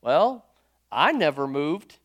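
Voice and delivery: low, calm husband's reply, easy and unhurried; quiet and calm. Retold or imitated. The husband answering his wife calmly, low and steady. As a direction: say it plainly and calmly, no fuss. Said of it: "just quiet and calm".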